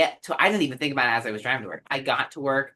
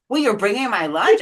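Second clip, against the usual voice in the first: happy laugh; 6 semitones higher, 6 dB louder than usual. Retold or imitated. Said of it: "And I was so happy".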